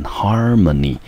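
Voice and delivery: harmony with HAR stressed; stress on first syllable. Shown as a demonstration. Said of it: "重音节落在第一个音节". (重音在harmony第一个音节)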